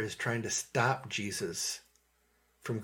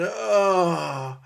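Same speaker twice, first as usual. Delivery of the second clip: loud, rising, drawn-out "oh"; mock exasperated groan; 6 semitones higher, 8 dB louder than usual. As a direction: let out a big, overblown groan of condemnation. Mimics condemning voice God doesn't use.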